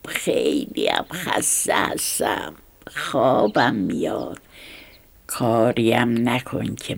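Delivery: unbothered and sleepy, lightly voiced; a hint of a lazy, bored snake; careless, lazy. Snake yawning as it brushes off the mouse, mild lazy boredom.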